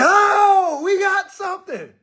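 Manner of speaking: high, loud mocking echo; mimicking the cop. Echoing the officer over the pistol, a high mock. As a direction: parrot the officer's find back at him. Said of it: "I said the same thing he said".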